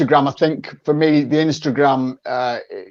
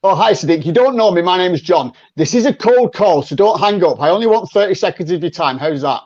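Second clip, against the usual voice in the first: role play cold call. Pretend. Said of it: "I'm ringing you".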